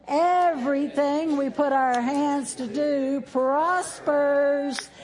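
loud, slow, fervent closing prayer; preaching prayer. Acted. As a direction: pray it out with full conviction. Closing prayer over the congregation.

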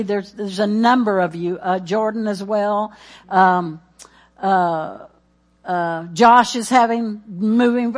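usual speaking voice

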